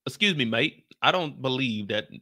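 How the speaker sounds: hesitant, halting stab at British; badly faked British accent; lightly put-on UK accent, unsure of it; attempted UK accent. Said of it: "I can't do a U K accent".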